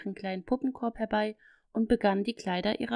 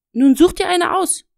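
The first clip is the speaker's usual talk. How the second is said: firm, higher and louder, settling it; a mother putting her foot down, raised voice; firm motherly command, pitched up and loud; 9 semitones higher, 12 dB louder than usual. A narrator's reading. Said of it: "sagte Mutti in bestimmtem Ton".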